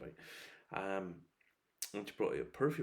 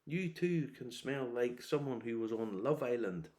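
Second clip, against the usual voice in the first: slow, drawn-out spoof of an advert voice; mock perfume ad; 3 semitones higher, slower than usual. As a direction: ham up a cheesy ad pitch, slowly. Mocking celebrity perfume ads.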